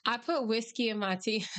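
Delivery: secretive joking whisper. Pretend. Joking confession about whiskey.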